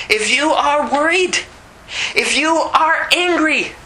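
loud, driving preacher voice; preacher urging the church, loud and driving; full-force preaching. Acted. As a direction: hammer it home to the congregation.

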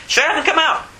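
very high, emphatic command; acted exorcising order, high and abrupt; forceful rebuke. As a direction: drive the demon out with it. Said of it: "we can say that".

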